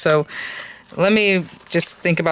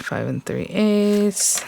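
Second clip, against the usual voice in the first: slow, deliberate repeat; 3 semitones higher, much slower than usual. Real, not acted. Repeating the measurement slowly.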